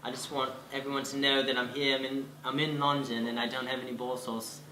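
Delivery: put-on light Chelsea-style British accent; posh British accent. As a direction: announce it in a posh London voice. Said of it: "In a really Chelsea voice for me".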